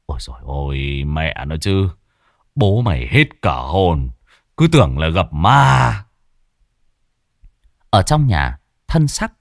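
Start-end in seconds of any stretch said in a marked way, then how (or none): 0.1-6.0 relieved muttering. A narrator's reading. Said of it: "Miệng ông lẩm bẩm".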